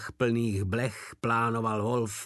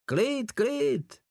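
higher, soothing fatherly calm; 13 semitones higher than usual. A narrator's reading. Porta calming the armed Wolf, fatherly and soothing. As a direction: settle him down like a patient father. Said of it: "opáčil Porta otcovským tónem".

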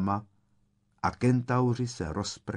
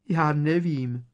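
high, frightened peep; terrified squeak; 7 semitones higher, 4 dB louder, slower than usual. A narrator's reading. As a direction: squeak it out in fear of the giant. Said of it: "pípla vyděšeně".

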